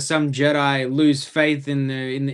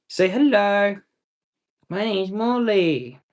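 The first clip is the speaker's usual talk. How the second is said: voicing the dog; 5 semitones higher, slower than usual.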